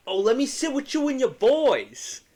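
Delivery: mocking pushy stranger. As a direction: ham up the pushy drunk. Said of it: "he's like".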